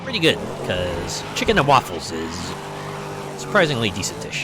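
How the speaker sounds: talking with food in mouth; mouth full. Real, not acted. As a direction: say it round a mouthful. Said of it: "Sorry, I had something in my mouth there".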